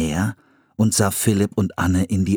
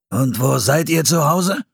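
less than friendly; 7 semitones higher than usual. A narrator's reading. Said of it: "Er klang längst nicht so freundlich".

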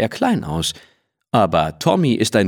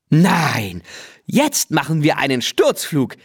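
bestimmend; 6 semitones higher than usual. A narrator's reading. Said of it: "bestimmt Lene".

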